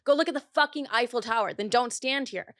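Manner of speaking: heated mock snap; retold angry snap. Snapping back at sister by the Eiffel Tower, angry. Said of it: "I said".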